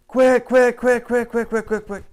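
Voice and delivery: very high, loud rapid "quick" quacks; excited duck call honks. Shown as a demonstration. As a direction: beg the ducks back, fast and urgent. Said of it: "excited greeting slash comeback".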